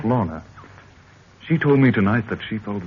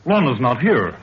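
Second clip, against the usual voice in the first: rising alarm; 4 semitones higher than usual. Acted. Daughter's bed found empty.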